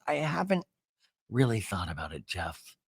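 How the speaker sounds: tired. Retold or imitated. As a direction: trail off like you're tired of being asked. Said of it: "And she's tired".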